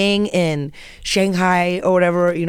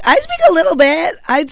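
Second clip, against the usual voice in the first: mock high-pitched insistence, louder; high defensive protest; 10 semitones higher, 5 dB louder than usual. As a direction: squeak out a defensive claim. Defending herself to dad.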